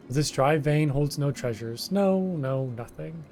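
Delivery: whiny kobold. Acted. Kobold foreman Gigu complaining to the hero, wheedling. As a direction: play a self-pitying kobold pleading with a stranger.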